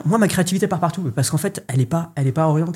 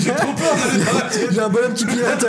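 en riant; 7 semitones higher than usual. Real, not acted. Blague sur la tête de Basile.

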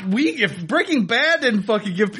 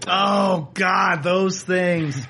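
exasperated groan; 2 semitones lower, much slower than usual. Real, not acted. Exasperated about fidget spinners.

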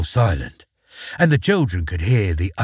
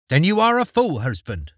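a touch of harsh scorn, pitched higher; harsh retort; 7 semitones higher than usual. A narrator's reading. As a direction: snap the insult at her husband, mildly. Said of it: "retorted his wife in a harsh voice".

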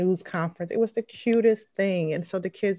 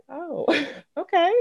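high, slow, laughing okay; 11 semitones higher than usual. Retold or imitated. To her son, a high slow laughing okay. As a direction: let the laugh break through the okay. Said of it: "I was like".

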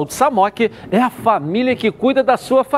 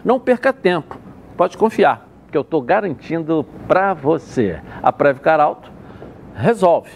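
upbeat live radio ad read; hard sell ad; slower than usual. Acted. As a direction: sell it like a sponsor spot. Host reads live sponsor spot.

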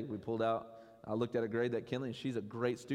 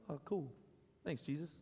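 mock indifference; 7 dB quieter than usual. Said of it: "we're like".

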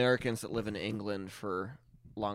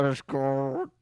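garbled stroke sound; 3 semitones higher than usual. Retold or imitated. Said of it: "You go".

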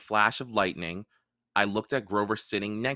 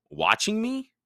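Percy voiced; 12 semitones higher than usual. Percy surprised question.

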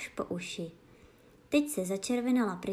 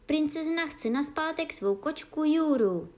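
courier shouting; 7 semitones higher, 4 dB louder than usual. A narrator's reading. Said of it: "křičel kurýr".

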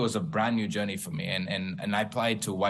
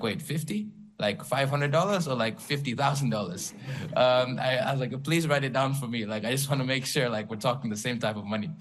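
higher, retold astonishment at the sum; mock disbelief; 5 semitones higher than usual. Founder reliving hearing of a fifty K check, incredulous. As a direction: act stunned hearing fifty K.

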